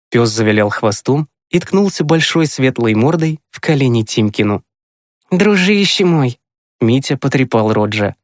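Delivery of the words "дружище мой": put-on high, slow boyish fondness; tender. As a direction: address a beloved dog fondly, high and drawn out. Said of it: "С нежностью повторил он". (с нежностью, высоко и протяжно)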